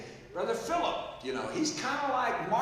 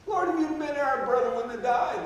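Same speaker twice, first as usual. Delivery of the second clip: louder, pressing grieving plea; mild raised lament; 5 semitones higher, 6 dB louder than usual. Acted. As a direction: push it out as an anguished appeal. Sisters grieving brother's death.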